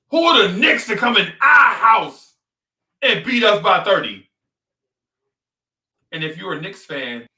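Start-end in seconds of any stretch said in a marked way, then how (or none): 0.1-4.3 Boston fan. Retold or imitated. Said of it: "this is what you're thinking".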